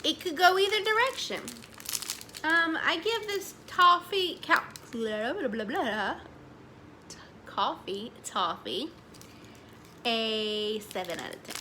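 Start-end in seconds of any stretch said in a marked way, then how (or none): 4.9-6.2 tongue-tied blah-blah. Real, not acted. Garbles words, babbles to reset.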